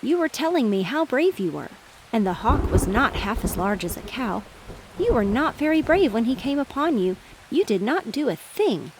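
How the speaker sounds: mock him from the tree; piping robin. Robin teases the rooster, lightly piping. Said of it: "piped the robin from a tree".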